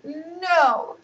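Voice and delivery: high, loud little no; little girl denying it; child's no. Acted. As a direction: blurt it out high. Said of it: "said Anissa".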